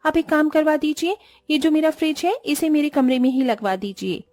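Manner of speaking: lightly voiced, pushy young bride; entitled daughter-in-law requesting. (अपना काम निकलवाती बहू)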